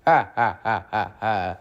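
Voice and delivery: spelt-out gloating ha-has; stagey villain laugh, trailing down; mocking laugh. Engine finding Toby crashed, mocking laugh. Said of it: "laughed Diesel".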